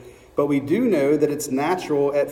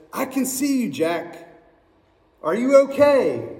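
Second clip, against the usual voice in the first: calm voice of God; 7 semitones higher than usual. Acted. God speaks to Jack.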